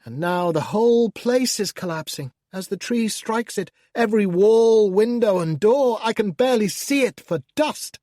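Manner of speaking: gleefully feigned dismay as the tree falls; mock horrified commentary. Demon describing to the reader the house collapsing, mock alarm.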